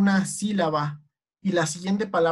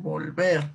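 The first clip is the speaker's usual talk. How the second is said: "volver" stressed on VER; acento en VER; 2 semitones lower than usual. Shown as a demonstration. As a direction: split it slightly, vol-VER. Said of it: "se le considera un sonido fuerte". ("volver" con acento en VER)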